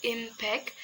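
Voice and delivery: "impact" in two careful syllables; teacher's careful syllable split of "impact". Shown as a demonstration. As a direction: separate the syllables of "impact" for learners. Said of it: "the syllable impact".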